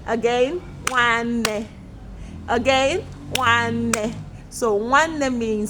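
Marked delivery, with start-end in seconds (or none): 0.9-1.7 "Nwanne" in separate, even beats; syllables clapped out. Shown as a demonstration. Teacher counts syllables with pupils, beat by beat. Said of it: "Can we clap it out?". 3.3-4.1 "Nwanne" in separate, even beats; syllables clapped out. Shown as a demonstration. Teacher counts syllables with pupils, beat by beat. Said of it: "Can we clap it out?".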